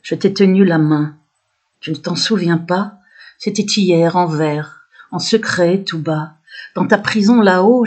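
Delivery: measured verse delivery, a pause after each line; poem recitation. Acted. Poet reciting her own poem to viewers, measured recitation.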